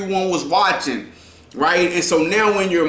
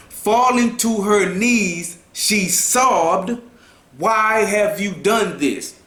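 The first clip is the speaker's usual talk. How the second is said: livelier storytelling voice; expressive reading; 2 semitones higher, slower than usual. Shown as a demonstration. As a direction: read it with feeling. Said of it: "You can say".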